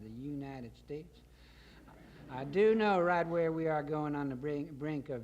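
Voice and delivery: lightly voiced folksy president; hint of a grandiose political address; Colonel Corn Pone. Colonel ordering liberation before his gentlemen, lightly pompous folksy speech.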